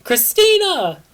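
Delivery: high, loud screamed name; screaming. Acted. Triss runs off screaming for Christina. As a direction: yell her friend's name in panic. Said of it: "ran away screaming".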